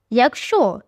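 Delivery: "Якщо" set apart with a falling tune; "Якщо" stressed, then a pause. A narrator's reading. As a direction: lean on "Якщо" as a cautious condition. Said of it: "і я кажу, якщо".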